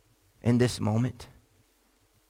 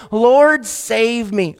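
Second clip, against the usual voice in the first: mock cry for help; 3 semitones higher, much slower than usual. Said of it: "Peter cries out and says".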